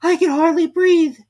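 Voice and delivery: high, slow squeaky complaint; a small creature squeezed and cross; high, slow, loud Dormouse grumble; Dormouse complaining. A narrator's reading. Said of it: "said the Dormouse".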